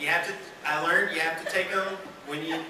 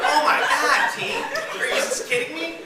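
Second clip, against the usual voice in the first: laughing, much higher, stunned "oh my God"; disbelief; 10 semitones higher, 4 dB louder than usual. Retold or imitated. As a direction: squeal in amused disbelief. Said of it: "And I was like".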